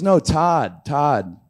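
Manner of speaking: mock confident bluff to the parking attendant; bluffing name-drop. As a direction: throw out a fake name with bravado. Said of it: "He goes".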